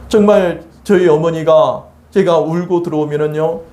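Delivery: normal talking voice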